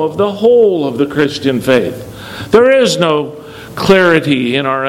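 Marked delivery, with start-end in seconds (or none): 0.0-2.5 "whole" stressed, falling away after it; emphatic "whole", settling to a close. Real, not acted. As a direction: land on "whole" as the correction. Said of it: "I just want to emphasize the words".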